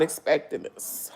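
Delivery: stunned whisper. Real, not acted. Stunned by a thousand subscribers, whispering to viewers. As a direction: breathe it out in disbelief. Overwhelmed, says it twice.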